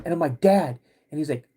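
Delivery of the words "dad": imitated crying plea. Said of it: "I'm absolutely crying".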